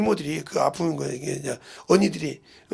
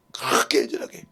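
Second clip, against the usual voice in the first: whispered; 6 semitones lower than usual. Retold or imitated. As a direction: breathe 그렇게 애절하게 out in a hush, lower pitch. Same words later cried out. (그렇게 애절하게를 속삭이듯)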